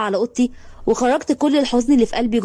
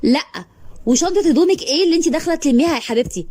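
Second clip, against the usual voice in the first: angry snap; 4 semitones higher than usual. Acted. Cruel sister to the heroine, angry and higher. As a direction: snap at her furiously. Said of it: "اتعصبت وقالت لي".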